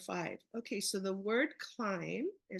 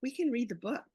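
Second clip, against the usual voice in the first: louder, proud announcement; a proud chorus of children; proud kids quote; 3 semitones higher, 5 dB louder, faster than usual. Retold or imitated. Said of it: "they said".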